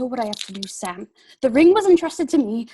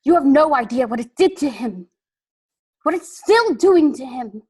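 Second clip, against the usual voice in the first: high and louder, heated; upset Frodo; 6 semitones higher, 6 dB louder than usual. Acted. Frodo snapping at Sam about the ring's hold, heated. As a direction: defend Gollum hotly.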